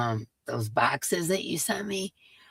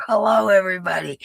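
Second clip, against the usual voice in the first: loud greeting; 4 semitones higher, 5 dB louder, faster than usual. Real, not acted. Greeting stream viewers loudly.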